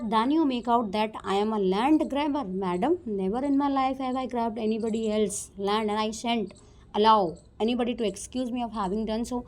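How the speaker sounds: slow, careful reading of the script lines; slow classroom reading of a play; reading a play aloud. Acted. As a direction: read each English line slowly for the class. Reads the play aloud slowly.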